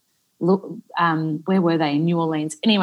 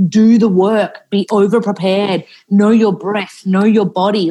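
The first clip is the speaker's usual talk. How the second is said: louder, punchy imitation of a driven teacher; emphatic quoted mantra; 3 semitones higher, 4 dB louder than usual. Student quoting the acting teacher's constant advice, emphatic. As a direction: drum in each instruction, lightly quoting a coach.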